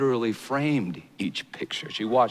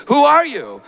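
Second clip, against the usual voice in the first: terrified whisper; 12 dB louder than usual. Acted. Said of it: "Terrified, he whispers".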